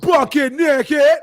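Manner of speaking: hammed-up quote of bucket naked; movie line tone. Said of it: "and that tone".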